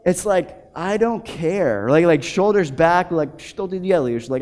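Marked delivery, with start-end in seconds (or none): 0.8-1.9 slow, unbothered tough-guy shrug; a light imitation of a cocky older Russian; Russian swagger. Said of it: "there's this swagger that certain older Russians have". 3.4-4.3 a lightly voiced cocky Russian asking in Russian; tossed off like a mafia type; swaggering Russian. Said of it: "this swagger that certain older Russians have".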